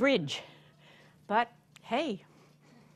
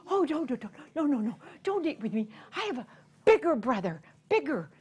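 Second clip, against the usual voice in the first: fast pleading; pleading goat; 2 semitones higher, much faster than usual. Acted. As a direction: gabble the plea.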